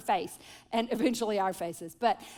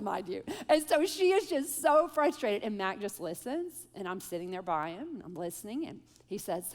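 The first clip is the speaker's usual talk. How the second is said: ordinary talk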